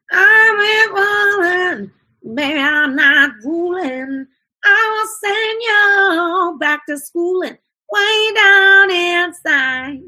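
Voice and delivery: high, loud twangy rock wail; rock singer impression. Coach imitating a rock singer to show nasal twang. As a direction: belt it out like a classic rock band. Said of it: the singer is "a great example".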